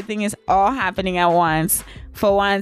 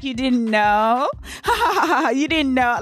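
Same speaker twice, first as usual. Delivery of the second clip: mocking nurse; 4 semitones higher than usual. The nurse laughing at the pregnant girl, mocking. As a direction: tease her like a laughing nurse. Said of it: "laughing at me".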